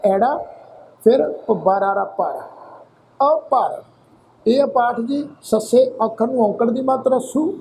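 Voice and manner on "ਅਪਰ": ਅਪਰ with a light pause after the opening ਅ; slight pause after first vowel. Shown as a demonstration. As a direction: say ਅਪਰ as ਅ, tiny break, ਪਰ. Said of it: "ਐੜੇ ਅੱਖਰ ਤੇ ਹਲਕਾ ਜਿਹਾ ਪੋਜ਼ ਦੇਵਾਂਗੇ ਜੀ".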